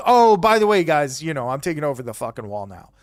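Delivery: casual, offhand mock announcement; not threatening. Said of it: "he doesn't even say it threateningly".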